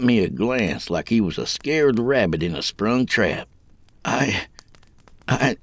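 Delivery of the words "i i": halting denial, high on the last word; falter, then hiss the denial. A narrator's reading. Kid denying the blood urge, hissed. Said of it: "he hissed".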